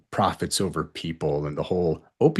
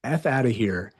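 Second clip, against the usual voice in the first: retold angry order; 4 semitones higher than usual. Doctor retelling throwing out the mother, angry. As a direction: order her out in a retold flare of anger.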